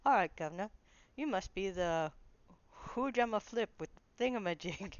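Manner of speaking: loud, high amateur Cockney lizard; Cockney accent. Acted. Gamer voices Bill the Lizard for viewers, loud rough-attempt Cockney accent. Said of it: "Bill talks with a Cockney accent".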